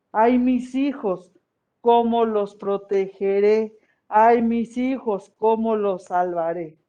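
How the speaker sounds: slow, drawn-out mock lament over her children; lightly weeping goddess. Teacher voicing Cihuacóatl mourning her children, slow lament. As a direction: stretch each "Ay" like a grieving mother, but keep it understated. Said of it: "en el llanto les decía".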